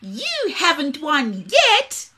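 high, slow, teasing squeak; taunting little voice. A narrator's reading. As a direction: gloat like a tiny bird. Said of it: "a taunting little voice".

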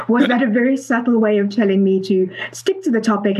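light laugh through the words. Real, not acted. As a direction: chuckle as you tease him about it. Host jokes about being redirected.

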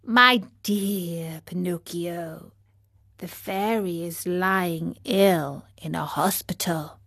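calm low whisper; calm as ever. Acted. Snail tells Pinocchio the fairy is ill, calmly. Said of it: "calm as ever".

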